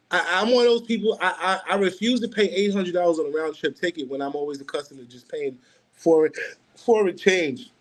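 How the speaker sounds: chuckling through the words, a bit fast; amused laugh while speaking quickly. Real, not acted. Laughing about pricey plane tickets.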